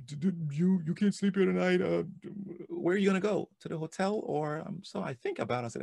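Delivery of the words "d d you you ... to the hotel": retold incredulity. Husband retells his stunned reply.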